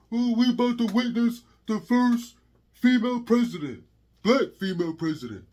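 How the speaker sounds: mock her hype announcement; mocking a rapper's voice. Ranting vlogger mocking the rapper's stage hype. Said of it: "That's how she sounded, like a dude".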